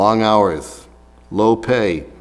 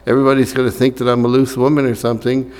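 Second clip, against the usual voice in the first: slightly higher, hurried imagined complaint; mock whining; 3 semitones higher than usual. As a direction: mildly imitate a worried whiner. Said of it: "didn't complain and whine and say".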